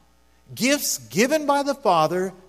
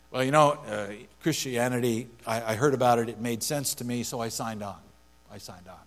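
a hint of a casual new Christian, softer and lower, trailing off; naive believer; 5 semitones lower, 5 dB quieter than usual. Preacher imitating a naive new believer, soft and offhand. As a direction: lightly voice an untaught baby Christian shrugging it off. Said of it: "an untaught baby Christian might reason this way".

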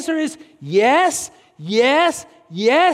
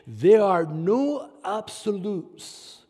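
mock relativist; 5 semitones lower, 3 dB quieter, slower than usual. Mocking relativist slogan.

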